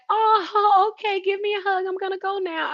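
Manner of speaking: imitating her. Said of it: "the way she was like".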